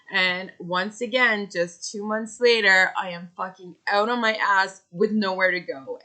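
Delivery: venting real fury at being kicked out again; real anger. Real, not acted. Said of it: "That is how livid I am".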